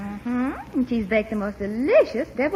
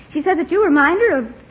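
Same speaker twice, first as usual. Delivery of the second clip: laughing; 3 dB louder than usual. Acted. Teasing uncle about his admirer.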